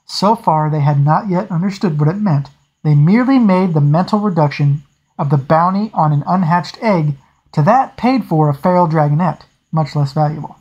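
steady audiobook reading voice; story narration. A narrator's reading. Reader narrating a naval scene for listeners, steady storytelling. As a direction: read the novel to your listeners. Reads novel aloud.

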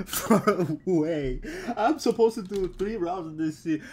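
slow, drawn-out laughing groan; disbelieving laugh; laughing despair. Real, not acted. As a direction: laugh through the defeat. Laughing despair after losing.

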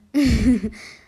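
bursting out in a loud laugh. Acted. Friend laughing loudly at the misread word. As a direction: cackle loudly at the joke.

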